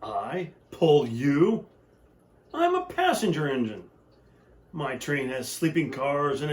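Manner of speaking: haughty, scornful engine; a touch of snobby disdain; snooty snort. Acted. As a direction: look down your nose at the little train. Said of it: "the shiny new engine snorted".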